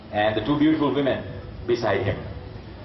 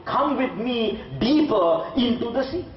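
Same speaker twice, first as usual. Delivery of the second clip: put-on old man's urging; 7 semitones higher than usual. Old man urges the kid deeper.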